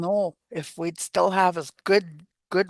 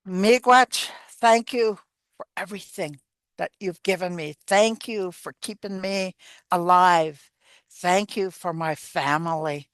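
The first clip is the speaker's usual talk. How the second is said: prayerful thanks. Shown as a demonstration. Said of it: "talk to her like that".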